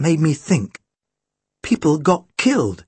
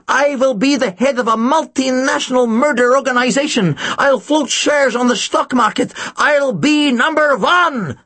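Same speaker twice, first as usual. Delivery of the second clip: insane villain; 7 semitones higher than usual. A narrator's reading. Charlotte boasting of her assassin network, crazed gloating. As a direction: gloat and rave, ever more crazed. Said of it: "She was insane".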